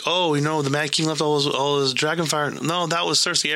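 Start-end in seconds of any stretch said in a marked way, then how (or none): 0.0-2.5 a hint of scoffing fan chatter, pitched up; mock dismissive joking. Lightly mocking the fans blaming the Mad King. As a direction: brush it off the way gossiping fans do. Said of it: "everyone jokes, like".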